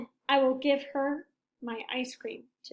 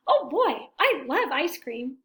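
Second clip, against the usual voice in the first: lightly voiced excited elephant; 5 dB louder than usual. Elephant dreaming of ice cream, lightly voiced and eager. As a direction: savor the love of ice cream.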